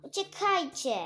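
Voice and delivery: high alarmed yell; shout. Acted. Child warning friends to run, high alarmed shout. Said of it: "ktoś krzyknął".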